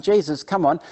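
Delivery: loud, goading taunt; emphatic mock dare from a heckler; mocking crowd. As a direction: jeer a challenge, drawing out the last words. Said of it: "the crowds are mocking him".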